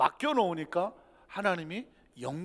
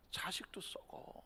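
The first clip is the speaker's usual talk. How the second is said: whisper; 18 dB quieter than usual. Acted. Whispered aside.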